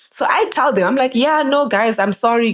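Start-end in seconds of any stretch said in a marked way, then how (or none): 1.1-2.5 placating. Retold or imitated. Placating his friends.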